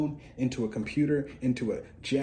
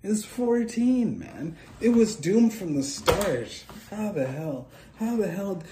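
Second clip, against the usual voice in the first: exasperated; 9 semitones higher, 6 dB louder than usual. Real, not acted. Looking back on being fourteen, exasperated and loud. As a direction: wail it out. Lamenting his younger self.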